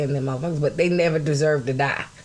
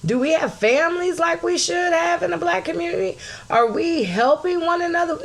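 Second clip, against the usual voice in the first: furious shout; 12 semitones higher than usual. Real, not acted. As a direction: yell it like a battle cry. Escalating rant about the community.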